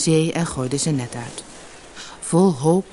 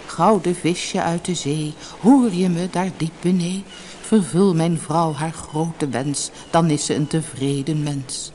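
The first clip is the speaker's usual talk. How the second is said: calling out. A narrator's reading. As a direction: call it out like a measured verse. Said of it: "en riep".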